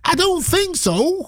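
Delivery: very high slow American accent. Shown as a demonstration. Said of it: "Or should I say".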